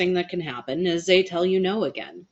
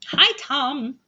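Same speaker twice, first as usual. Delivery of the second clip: high, louder sing-out hello; bright greeting call; 9 semitones higher, 5 dB louder than usual. Real, not acted. Host greeting a viewer who just joined, delighted call.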